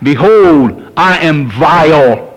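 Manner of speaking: slow, drawn-out lament; crying out in repentance. Retold or imitated. Preacher voicing a repentant sinner, slow lament. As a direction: plead it slowly like a sinner's cry. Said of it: "we'd be crying out".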